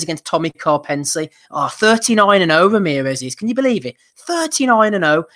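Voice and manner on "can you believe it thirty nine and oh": incredulous. Real, not acted. Disbelief at unbeaten padded record.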